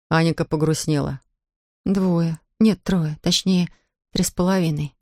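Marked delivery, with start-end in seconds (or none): 1.8-4.9 with a sigh. Acted. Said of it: "со вздохом добавила она".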